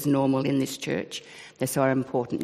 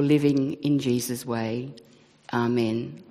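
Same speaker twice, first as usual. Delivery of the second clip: measured, reverent prayer voice. Acted. Minister leading the congregation's prayer, reverent.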